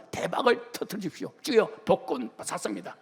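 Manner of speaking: lightly hammed-up pleading prayer; mock prayer. Preacher mimicking believers praying for a lottery win, mock prayer. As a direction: act out a greedy petition to the Lord.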